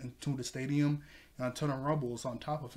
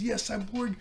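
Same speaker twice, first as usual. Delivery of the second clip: cheering mechanic; 8 semitones higher than usual. Retold or imitated. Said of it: "He goes".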